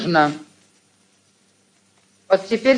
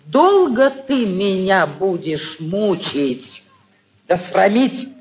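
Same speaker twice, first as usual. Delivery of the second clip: couple bickering. Acted. Aunt reproaches nephew.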